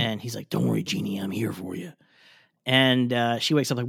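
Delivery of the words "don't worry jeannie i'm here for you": lightly acted comforting hero, pitched low. Wolverine reassures Jean as she faints.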